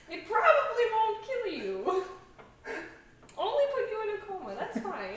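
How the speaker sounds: high, sly witch voice. Acted. Continuing the witch bit.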